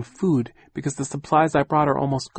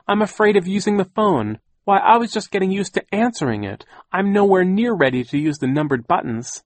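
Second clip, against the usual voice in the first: high, loud, defensive aunt voice; cross; 9 semitones higher, 6 dB louder than usual. A narrator's reading. Aunt defending her escape to the children, cross. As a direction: justify yourself crossly, pitched high. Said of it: "Aunt Josephine said crossly".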